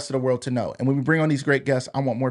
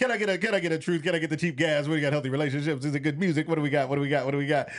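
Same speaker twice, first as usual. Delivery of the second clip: fast, rattling auctioneer patter; 4 dB quieter than usual. Calling out poll options to participants: auctioneer voice. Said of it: "you need an auction voice".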